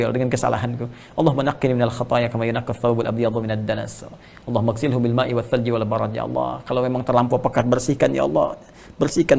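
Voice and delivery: understated tender prayer; devout prayer. Acted. Recites prayer and translation.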